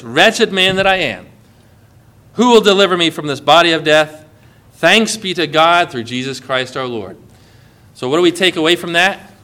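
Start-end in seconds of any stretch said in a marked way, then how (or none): 0.0-7.2 soft, sinking read of Paul's lament; quiet lament. Retold or imitated. Pastor reading Paul's cry of wretchedness, subdued and low. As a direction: let it fall low and heavy, hint of grief. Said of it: "ends this whole talk like this".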